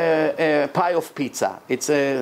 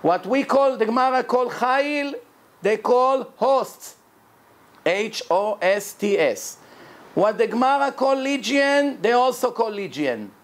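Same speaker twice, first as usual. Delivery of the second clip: raised pitch, terms spaced out slowly; careful slow reading; 5 semitones higher than usual. Real, not acted. Teacher matching Gemara terms to English words, reading slowly. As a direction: read out each unfamiliar English term slowly and carefully. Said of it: "I'll try to read it slow".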